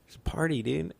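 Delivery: a touch of the giddy high dude; stoned excited guy. Retold or imitated. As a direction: play the blissed-out stoner hearing a party. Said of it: "I'm like".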